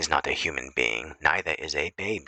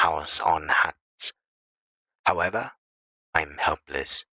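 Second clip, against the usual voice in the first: weary irritation. Shown as a demonstration. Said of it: "or whether you convey".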